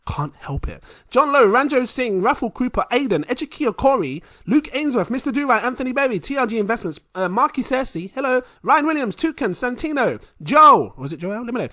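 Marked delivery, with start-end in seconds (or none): 1.1-10.9 high, loud hype announcer reading names; shout-out roll call. Real, not acted. Host thanking patrons on a long list, hyped roll call. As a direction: belt out each name like a roll call.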